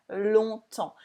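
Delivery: "Longtemps" with no G, P or S heard; "Longtemps" ending on the nasal vowel; silent letters. Shown as a demonstration. Teacher modelling "Longtemps" for students, letters silent. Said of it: "We don't say the G and we don't say the P".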